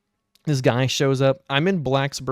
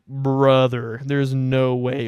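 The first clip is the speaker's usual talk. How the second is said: exasperated disbelief; 4 dB louder, much slower than usual. Retold or imitated. Others served before him.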